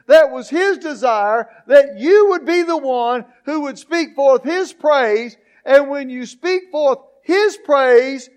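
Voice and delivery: emphatic, rhythmic sermon delivery; preaching. Real, not acted. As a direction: drive each phrase home to the congregation. Preaches at force to congregation.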